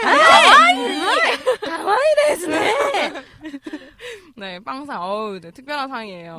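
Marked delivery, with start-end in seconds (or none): 0.0-2.7 very high, slow kawaii squeal; cutesy anime voice. Pretend. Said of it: "일본어로".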